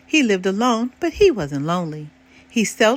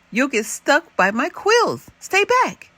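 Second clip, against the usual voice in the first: crying out; 6 semitones higher than usual. Acted. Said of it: "Elmore cried".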